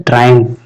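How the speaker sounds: ट्रायम्फ as TRAI-umf; careful pronunciation demo. Shown as a demonstration. Teacher asking students to mind pronunciation, ट्रायम्फ as TRAI-umf. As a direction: say ट्रायम्फ with stress on TRAI and a final f. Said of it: "इसको pronunciation पे ध्यान देना".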